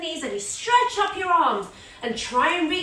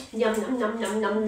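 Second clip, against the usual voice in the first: mock eating yum; 4 semitones lower than usual. Shown as a demonstration. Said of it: "eat your porridge".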